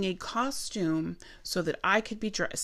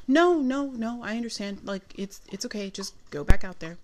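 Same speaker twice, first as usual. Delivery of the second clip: retold reassurance; 2 semitones higher, 3 dB louder than usual. Managers reassure apologetic server in retelling.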